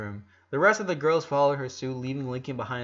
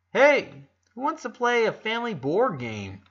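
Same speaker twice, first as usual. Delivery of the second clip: cheery call; 8 semitones higher, 5 dB louder than usual. A narrator's reading. Lincoln rallying the family.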